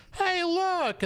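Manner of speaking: imitating a woman. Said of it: "a lady's like".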